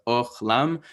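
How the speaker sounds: Ochlam slowly, O then ah; demonstrated pronunciation. Shown as a demonstration. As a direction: sound out "Ochlam" slowly, O in "Och", ah in "lam". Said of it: "kamatz that makes an O sound".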